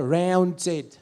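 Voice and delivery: "Rounded" in Australian English; Australian accent. Shown as a demonstration. Comedian repeating his demo for the audience, Australian accent. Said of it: "Australian, rounded".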